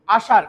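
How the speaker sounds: আসার said "aashaar", tongue not touching; sh in আসার made clear of the palate; retroflex sh. Shown as a demonstration. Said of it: "কোনো touch করবে না". (আসার-এ মূর্ধন্য ষ, জিভ ছোঁবে না)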